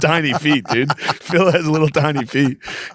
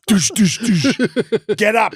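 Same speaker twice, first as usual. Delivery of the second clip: door pounding; 6 semitones higher, much slower than usual. Retold or imitated. Imitating dad pounding door.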